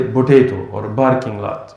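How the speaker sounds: "potato" as "botato", "barking" for parking; Arab-accented b for p. Retold or imitated. Imitating Arab brothers in America, p turned to b. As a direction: swap p for b in "potato or barking lot". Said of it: "many of the Arab brothers".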